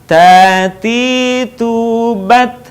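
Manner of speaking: long vowels in "Tati tubat", a puff of air on the t; airy T. Shown as a demonstration. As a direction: chant "Tati tubat" slowly, letting air flow on each T. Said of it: "simak dari awal". ("Tati tubat" panjang, huruf t dialiri napas)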